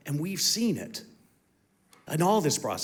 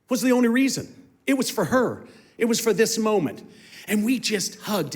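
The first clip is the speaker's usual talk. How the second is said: much higher and louder, preaching at full force; fervent emphasis; 7 semitones higher, 5 dB louder than usual. Real, not acted. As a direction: lift it like a revelation.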